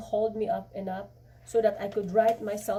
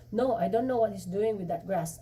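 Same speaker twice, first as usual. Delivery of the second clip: flatly. Acted. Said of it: "I said flash, flatly".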